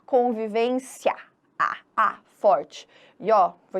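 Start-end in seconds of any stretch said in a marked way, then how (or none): 0.0-1.1 "Convivência" slowly, the final a clearly sounded; predominant final a. Shown as a demonstration. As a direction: let the closing a of "Convivência" ring out after a slight i. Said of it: "o que predomina é o a".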